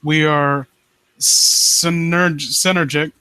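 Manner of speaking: low, brooding villain read; a hint of a vengeful prince reading his vow; dramatic story reading. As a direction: read it like a scheming usurper, low and steady.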